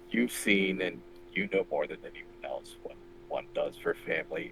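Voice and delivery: hushed, slow and soft; soft plea. Acted. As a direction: quietly urge the mother to stop. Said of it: "I'm trying to talk softly".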